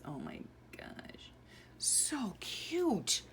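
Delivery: hushed whisper of delight; awed whisper. Real, not acted. Mother whispering over photos of her little girl. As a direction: breathe it out softly.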